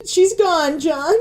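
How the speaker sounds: choking up as she breaks the news; tearful. Acted. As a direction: voice catching on a sob. Breaks news of mother's death.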